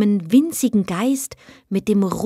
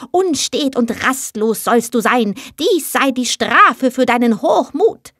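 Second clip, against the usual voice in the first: a higher, forceful scolding curse; grim voice; 4 semitones higher than usual. Acted. Offended heath spirit curses the proud girl, grim and forceful. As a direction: cast the punishment down on her in wrath. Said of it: "mit grimmiger Stimme rief er".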